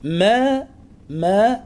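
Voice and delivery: "ما" with a measured long a; natural madd. Shown as a demonstration. Teacher isolates the syllable, natural lengthening on "ما". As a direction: hold "ما" for two counts only. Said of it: "هذا مد طبيعي".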